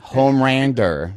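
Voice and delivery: drawn-out mock Asian accent, L turned to R. Joking that she needed a strong accent, mock Asian accent. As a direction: say "Homelander" slowly in a caricature Asian accent. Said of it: "a strong Asian accent".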